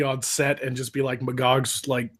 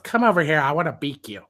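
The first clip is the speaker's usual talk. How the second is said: lecherous bird. Retold or imitated. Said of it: "Poe just goes".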